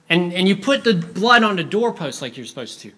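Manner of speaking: a hint of a fretting child; anxious little boy. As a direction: press Dad nervously for confirmation. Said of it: "one boy who comes up to the father".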